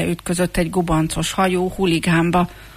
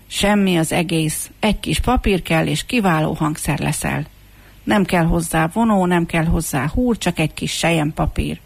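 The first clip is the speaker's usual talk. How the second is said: delighted cry. Acted. Street musician takes on the comb as mouth organ, delighted. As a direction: share a brilliant idea with delight. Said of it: "elmosolyodott és felrikkantott".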